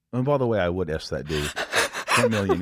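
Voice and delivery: badly imitated Australian accent; terrible Australian accent. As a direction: lightly mimic an Australian accent. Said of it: "terrible Australian accent I'm doing".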